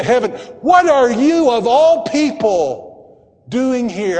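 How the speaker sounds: loud, high, insistent challenge leaning on "you"; impassioned preacher's question pressing on "you"; stress on you. Acted. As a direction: hammer "you" as God in disbelief. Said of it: "put the emphasis on the word".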